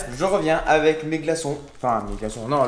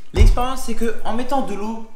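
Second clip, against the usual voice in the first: excited; 7 semitones higher, 7 dB louder than usual. Real, not acted. Excited announcement of experiment.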